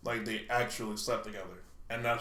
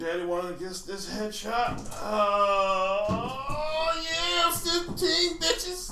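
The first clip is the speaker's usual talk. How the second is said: rising to a high, loud, drawn-out yell; triumphant shout; 10 semitones higher, 5 dB louder, much slower than usual. Real, not acted. Gamer gloating to friends after a headshot, triumphant yell. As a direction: crow over the win.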